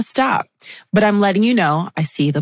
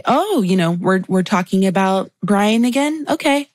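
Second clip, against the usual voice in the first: sassy. Retold or imitated. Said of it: "Was that sassy?".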